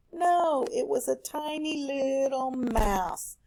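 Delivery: teacher's playful reveal of the tiny mouse; surprise reveal. Acted. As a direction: draw out tiny little mouse, slowly.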